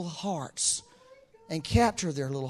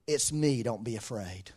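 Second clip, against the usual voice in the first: calm reassurance; 6 semitones lower than usual. Retold or imitated. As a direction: settle their fear gently, voice dropping. Voices Jesus calming the disciples.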